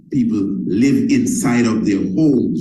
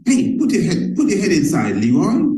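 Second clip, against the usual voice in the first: owner scolding dog; 7 semitones higher than usual. Acted. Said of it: "That's the name of the dog".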